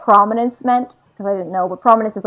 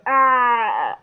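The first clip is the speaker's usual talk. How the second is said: acted cry. Reader imitating a fighter crying out, mock cry. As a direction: let out a half-hearted cry. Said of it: "And he says".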